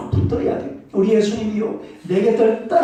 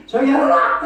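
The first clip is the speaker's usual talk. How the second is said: hushing; 7 semitones higher, 4 dB louder than usual. Retold or imitated. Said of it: "옆에서 우리 최인우 권사님이".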